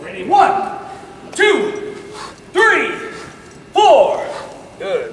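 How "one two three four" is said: loud counting. Shown as a demonstration. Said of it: "Let's try it fast".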